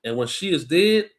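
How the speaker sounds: slow, measured Bible reading voice; scripture reading. Acted. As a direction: read it out like a preacher at the lectern. Reads Tobit aloud.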